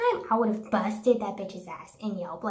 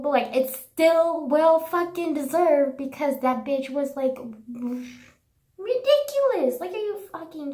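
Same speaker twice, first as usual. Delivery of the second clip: outraged rant; 4 semitones higher, 6 dB louder than usual. Real, not acted. Venting about the rude waitress.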